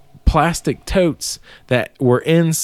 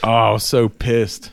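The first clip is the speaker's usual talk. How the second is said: laughing; 3 semitones lower than usual. Real, not acted. Laughing while recalling anger.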